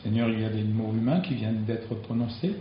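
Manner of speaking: hushed, earnest prayer with long pauses. Real, not acted. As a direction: pray simply to the Lord, pausing between phrases. Closing prayer after the sermon. (prière recueillie, entrecoupée de silences)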